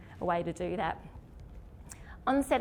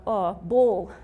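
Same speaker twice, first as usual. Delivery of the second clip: mock confident answer; 8 dB louder than usual. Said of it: "has anyone ever gone".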